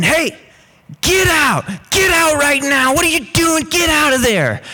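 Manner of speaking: high-pitched mock yell; retold scolding yell. Housemate heard yelling from the bedroom, retold high yell. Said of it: "We don't ever talk to Bayrock like that".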